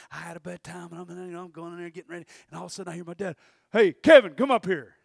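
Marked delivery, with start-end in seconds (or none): 3.7-4.9 loud call up the stairs. Retold or imitated. Dad calling his son from another room. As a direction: call him from across the house.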